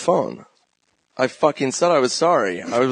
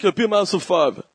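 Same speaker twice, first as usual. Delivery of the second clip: impression of Jay; 6 semitones higher, faster than usual. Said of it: "my impression of Bort".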